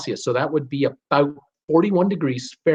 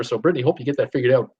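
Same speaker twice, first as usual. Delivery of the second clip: hiccuping; faster than usual. Real, not acted. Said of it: "I'm just hiccuping here".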